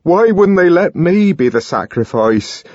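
high, loud impassioned plea; rising passionate lament; anguished outburst. A narrator's reading. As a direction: pour it out in desperation. Young man's anguished outburst.

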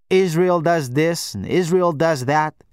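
slow, mocking Arabic accent. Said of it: "in a mock Arabic accent".

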